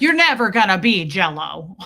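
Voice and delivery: lightly acted, punchy verdict; firm movie retort. Quoting one movie rival putting down the other, firm.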